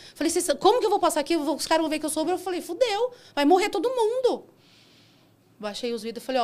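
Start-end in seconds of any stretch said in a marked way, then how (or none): 0.3-4.4 high, loud retold alarm; panicked. Driver fears being spotted as Uber in the street party, panicked. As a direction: act out panic, pitch climbing.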